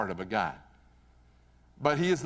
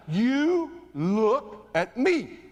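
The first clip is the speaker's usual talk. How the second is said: stern command; 7 semitones higher, much slower than usual. Retold or imitated. Coach commands after the yell.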